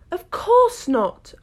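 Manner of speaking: high, slow, eager Alice; quick ready reply. A narrator's reading. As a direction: answer right away, brightly. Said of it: "Alice replied very readily".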